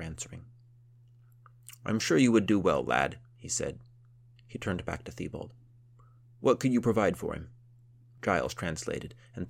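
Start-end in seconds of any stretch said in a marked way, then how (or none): 1.8-7.5 gruff count voice. Acted.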